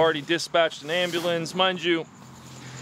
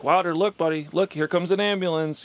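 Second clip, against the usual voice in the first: raised, eager coaxing call; urgent calling out; 5 semitones higher than usual. Retold or imitated. Father urging his dazed son to look, raised coaxing call. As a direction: rouse the child with excitement. Father calls son's attention.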